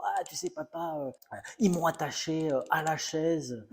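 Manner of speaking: a hint of a little boy tattling; complaining child. Child telling his father about school, lightly whiny. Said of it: "me plaindre à mon père le soir en disant".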